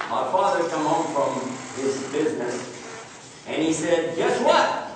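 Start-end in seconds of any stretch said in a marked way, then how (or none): 4.2-4.9 high, eager guess what; a dad who can't hold in the news; excited dad. Retold or imitated. Father bursting with business news.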